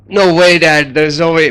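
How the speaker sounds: a hammed-up child's wail of no; retold kid's outburst. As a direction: play the kid refusing, half-shouting. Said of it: "the son loses it".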